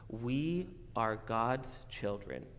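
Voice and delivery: slow demo. Shown as a demonstration. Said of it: "Can you say, repeat after me?".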